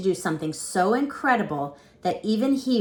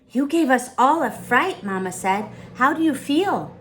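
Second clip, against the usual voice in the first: high, louder anxious mom; a hint of a scared mother; worried mother; 7 semitones higher, 5 dB louder than usual.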